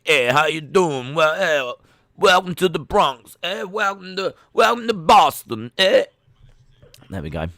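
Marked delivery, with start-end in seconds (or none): 0.0-6.1 hammed-up, higher-pitched Bronx-to-Boston accent; Boston American accent. Shown as a demonstration. Streamer attempting an American accent on request, caricature Boston. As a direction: greet them as a caricature East Coast American. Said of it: "I gave you someone from Boston".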